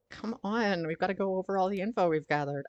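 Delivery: bubbly airhead partner voice; lightly voiced ditzy sidekick; bimbo voice. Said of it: "I'm doing my, like, a bimbo voice for Ario".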